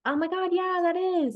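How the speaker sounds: gushing friend. Retold or imitated. Retelling how her friend reacted to the photo, mock squeal. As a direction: mimic her gushing over the picture. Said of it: "you were like".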